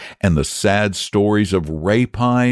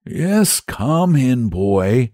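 kind saint; 5 semitones higher, much slower than usual. Acted. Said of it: "said the saint kindly".

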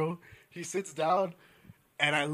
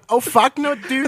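lightly mocked Mexican-American accent; imitating paisa speech; 5 semitones higher, 3 dB louder, slower than usual. Friends mimicking their paisa friends' talk, mock Mexican accent. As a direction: put on a hint of a Mexican accent. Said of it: "fucking straight paisas".

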